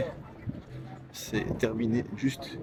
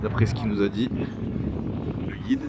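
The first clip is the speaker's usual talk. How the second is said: shouting over wind. Real, not acted. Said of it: "Je sais pas si vous m'entendez bien avec le vent".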